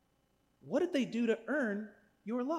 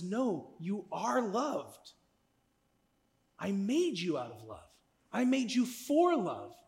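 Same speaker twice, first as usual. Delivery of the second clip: reassuring God. Retold or imitated. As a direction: gently tell them they are loved. God voiced reassuring softly.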